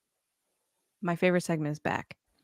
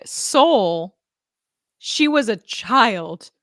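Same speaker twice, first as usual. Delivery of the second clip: put-on terrible Arnold accent; 2 semitones higher, 6 dB louder, much slower than usual. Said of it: "I have a terrible Arnold accent".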